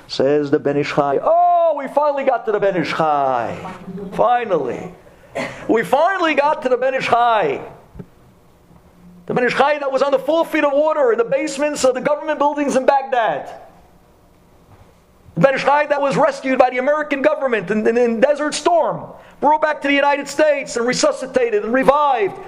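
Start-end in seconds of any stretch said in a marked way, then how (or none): 1.2-7.6 mock excitement. Rabbi voicing the audience's joy, laughing and excited. Mock crowd delight at Ben Ish Chai. 9.3-22.4 higher and rising, pressing each phrase; fiery preaching. Acted. Rabbi telling the congregation, in fiery preaching.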